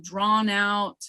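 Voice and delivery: "drawn out" stretched to illustrate itself; lengthened sounds. Shown as a demonstration. Teacher defining lengthened sounds, drawn out. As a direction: draw out the vowels of "drawn out". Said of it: "when I say lengthened sounds".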